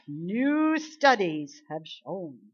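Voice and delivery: very slow, drawn-out mock announcement; mocking media voice. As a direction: stretch it out in mockery. Mocking media claims again.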